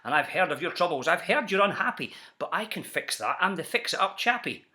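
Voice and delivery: a light touch of a fast-talking huckster; salesman pitch. Acted. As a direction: sell it like a slick peddler. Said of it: "he announced in a voice clear and keen".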